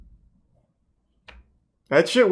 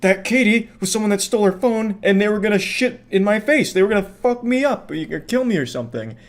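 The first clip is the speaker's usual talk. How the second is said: mock panic; 7 semitones higher than usual. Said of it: "So he's like".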